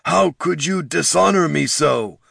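a hint of betrayal; wounded chieftain. A narrator's reading. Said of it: "said Darek".

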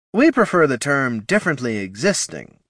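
hollow, reproachful skeleton voice. A narrator's reading. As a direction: scold them with hollow reproach. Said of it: "reproach in her hollow voice".

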